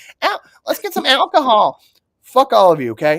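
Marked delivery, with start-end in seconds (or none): 0.2-1.8 mocking valley girl voice, higher. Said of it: "gag me with a spoon looking ass Californian bitches".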